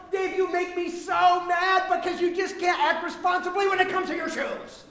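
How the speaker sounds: lightly voiced exasperated wife; a hint of a wife scolding her husband over shoes; imitating angry wife. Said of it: "imagine Sandy was up here".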